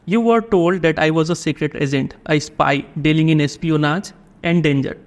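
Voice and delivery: drawn-out, deliberate reading of the text; slow passage reading. A narrator's reading. Teacher reading the English passage to the class, very slow. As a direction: read it slowly so students can follow. Reads the story passage aloud.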